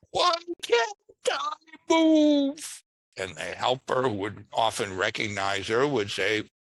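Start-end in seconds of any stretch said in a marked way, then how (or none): 0.1-2.8 very high, drawn-out whine, the word move stretched. Retelling the very first call, from a woman caller, imitating a whiny woman caller. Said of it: "a woman who was just sort of whiny voice".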